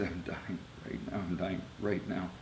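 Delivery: quiet, choked-back urgency; retold dying words. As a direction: say it softly, as if fading. Retells his dying words to family.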